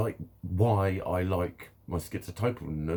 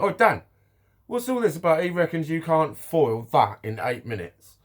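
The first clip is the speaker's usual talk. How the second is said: raised, high-pitched challenge across the room; calling out; 8 semitones higher, 6 dB louder than usual. Retold or imitated. Nipper calls Dan out over eight minutes, calling out loud. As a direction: shout over as if stirring up banter.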